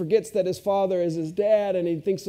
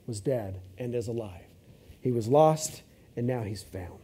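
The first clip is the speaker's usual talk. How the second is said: soft, low, tender reassurance; father reassuring his resentful son; gentle father; 6 semitones lower, 4 dB quieter than usual. Retold or imitated. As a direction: quietly comfort your son. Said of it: "His father said to him".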